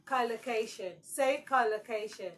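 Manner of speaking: collocation with weight on the first syllable; stress on COL. Shown as a demonstration. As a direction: model COL-location for students. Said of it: "Collocation is stressed on the first syllable".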